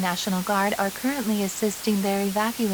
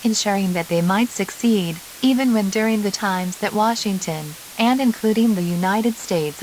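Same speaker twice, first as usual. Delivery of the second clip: urgent announcer; 3 dB louder than usual. Acted. Announcer grows urgent over the coalition's fate.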